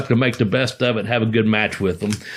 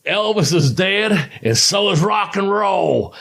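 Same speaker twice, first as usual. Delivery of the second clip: higher, slow drawn-out taunt; teasing call-out; 6 semitones higher, slower than usual. Retold or imitated. Ribbing a rock-and-roll wrestler in the ring, teasing call-out. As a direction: stretch it out high, needling an opponent.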